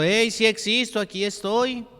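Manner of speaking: put-on children calling out. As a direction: shout it like a kid nobody notices.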